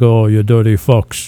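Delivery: slow mock-Italian accent; lightly put-on Italian accent, drawn out. Old restaurant guy cursing at the customers, mock Italian accent. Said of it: "doing an Italian voice again".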